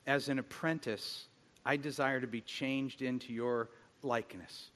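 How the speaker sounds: hushed earnest prayer; soft prayer. Retold or imitated. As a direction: pray gently to Jesus. Retold prayer in bed.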